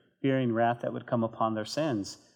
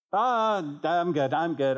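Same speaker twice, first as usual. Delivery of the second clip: higher, louder opening brush-off; mock dismissive; 4 semitones higher, 4 dB louder, slower than usual. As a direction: wave off the warning, lightly acted. Acts someone brushing off conviction.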